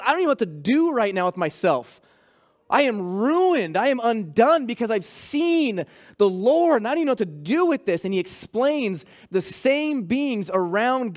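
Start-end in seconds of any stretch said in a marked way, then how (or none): 0.0-8.0 fast, rushed, mildly undone; a touch of panicked awe; overwhelmed Isaiah. Retold or imitated. Isaiah in the throne room of God, mildly rushed overwhelmed plea. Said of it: "He goes".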